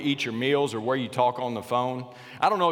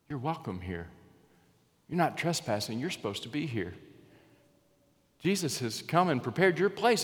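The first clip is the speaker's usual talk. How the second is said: gentle welcome; 2 semitones higher than usual. Pretend. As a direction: welcome them home tenderly. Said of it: "what he will say".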